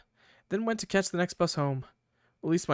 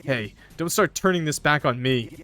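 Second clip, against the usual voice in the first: angry Krovan. Acted. Angry boyfriend yelling at Mary for ignoring texts. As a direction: yell at her for coming home late.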